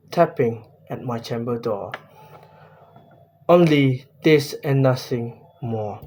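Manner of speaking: reading the verse in a measured poem voice; steady verse reading falling at line ends; poem recitation. Shown as a demonstration. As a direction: recite the stanza as an example. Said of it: "let me tell the example".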